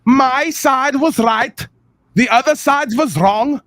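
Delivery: mocking partisan voice. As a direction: parody a stubborn believer. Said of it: "you'll both do exactly the same thing".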